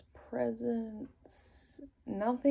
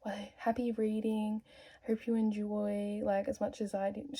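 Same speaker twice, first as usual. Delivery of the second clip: sweet lady voice. Retold or imitated. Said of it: "And she goes".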